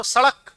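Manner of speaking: सड़क with a quick retroflex flap ṛ; सड़क with ड़ flapped, never a hard ḍ. Shown as a demonstration. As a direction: flick the tongue out in सड़क, "sa-ṛak". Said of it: "बाहर फेंक रही है".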